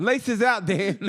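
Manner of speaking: laughing movie line; Ace Ventura quote. Retold or imitated. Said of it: "Ace Ventura".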